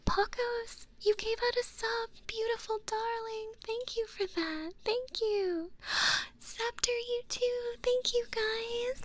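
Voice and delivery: high, sing-out thanks; gushing gratitude. Real, not acted. Streamer thanking viewers for subs, high and gushing. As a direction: gush your thanks up high.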